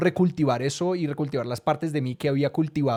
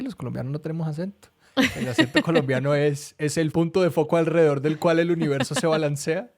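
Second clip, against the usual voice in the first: mock pompous pride. Joking Colombian pride.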